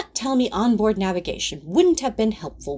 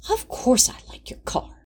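affronted; 4 semitones higher than usual. Acted. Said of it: "he said, affronted".

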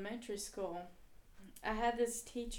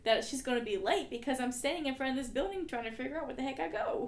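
higher, mock-exasperated venting; retold exasperation; 4 semitones higher, 5 dB louder than usual. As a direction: act out being fed up, lightly. Retelling exasperated reply about directions.

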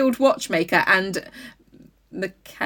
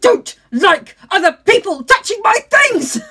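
louder, petulant confession; sulky king; 5 semitones higher, 5 dB louder than usual. Pretend. The king confiding to his therapist: petulant sulky confession. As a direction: whine like a spoiled king.

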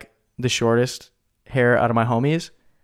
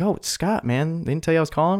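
lightly pitched-up imitation of the caller; casual caller; 5 semitones higher than usual. Caller surprised nobody told him, pitched-up mock. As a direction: toss it off like it's no big deal, voice raised. Caller voiced in retold call.

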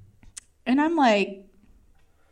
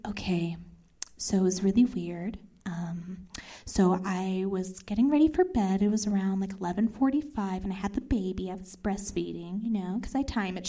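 low, soft, matter-of-fact account; hushed retelling; 4 semitones lower, 8 dB quieter than usual. Retold or imitated. Friend on FaceTime recounting her dream, quietly.

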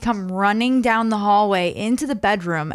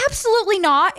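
emphatic no; 10 semitones higher, faster than usual. Retold or imitated. Refusing to kill mouse.

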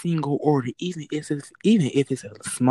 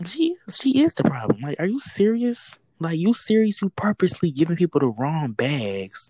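much higher, half-whispered outrage; much higher scandalized whisper; outraged disbelief; 5 semitones higher than usual. Real, not acted. Outraged gossip.

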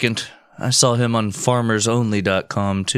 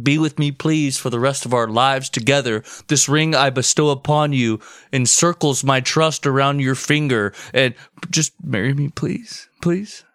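mock proposal; 4 semitones higher than usual.

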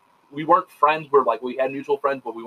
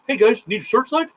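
upbeat greeting; 11 semitones higher, 3 dB louder than usual. Retold or imitated. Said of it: "walks up and goes".

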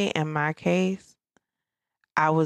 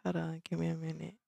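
holding back tears; 4 dB quieter, faster than usual. Real, not acted. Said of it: "are you getting teary?".

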